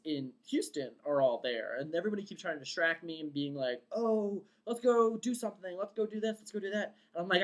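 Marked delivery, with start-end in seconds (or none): 3.9-7.0 coaxing friends. Retold or imitated. Friends distracting her, voiced in retelling.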